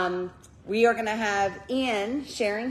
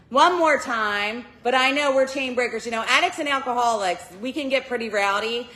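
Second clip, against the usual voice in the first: urging; 6 dB louder than usual. Real, not acted. Urging crowd to applaud.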